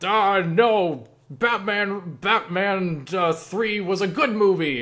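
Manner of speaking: high, stretched-out mock objection; arguing fan. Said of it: "you're having an argument with someone".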